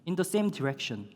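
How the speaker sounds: In the same direction spelled out very slowly; slow English gloss. Shown as a demonstration. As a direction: teach the phrase word by word. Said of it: "Come after 이라는 뜻입니다". (아주 천천히 또박또박)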